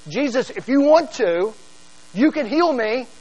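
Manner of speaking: calling out to Jesus in hope; pleading call. Retold or imitated. Leper following Jesus into town, calling out pleadingly. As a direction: call after him, begging to be healed. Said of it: "What he's yelling is".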